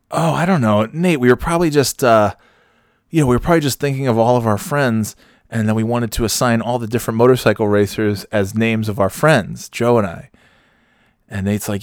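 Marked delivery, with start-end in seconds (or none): 0.1-10.3 nervous excuse. Retold or imitated. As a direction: talk your way out, pitched up. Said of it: "So I was like".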